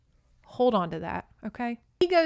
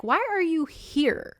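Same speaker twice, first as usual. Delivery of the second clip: startled question; 8 semitones higher, slower than usual. Retold or imitated. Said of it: "And she's like".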